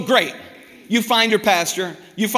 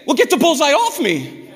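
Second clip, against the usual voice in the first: fast, higher, pleading plea to God to lift the target; exasperated honest prayer; 3 semitones higher than usual. Retold or imitated. Preacher voicing a weary believer begging God for a break, exasperated and fast. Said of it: "What do you say?".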